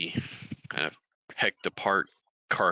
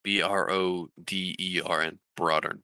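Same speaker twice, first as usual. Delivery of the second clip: spelling out. Shown as a demonstration. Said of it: "the town's name is Broadern".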